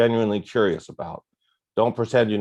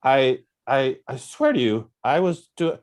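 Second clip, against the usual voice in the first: higher, louder, frantic plea; panicked pleading; 5 semitones higher, 3 dB louder, slower than usual. Retold or imitated. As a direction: beg him, voice climbing in panic. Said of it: "And I'm like".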